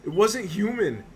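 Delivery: shaken and frightened. Acted. Attacked man telling the doctor what grabbed him. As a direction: relive the horror as you tell it. Patient recounts attack, terrified.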